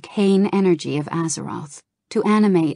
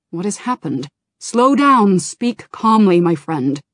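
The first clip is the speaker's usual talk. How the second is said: urgent command; 2 semitones higher, 8 dB louder than usual. Acted. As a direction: urge him to calm down, urgently. Kalik urges calm.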